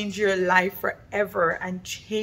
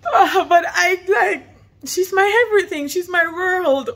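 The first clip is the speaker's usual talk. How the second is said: getting emotional; 8 semitones higher, 6 dB louder than usual. Real, not acted. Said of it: "I'm getting so emotional right now".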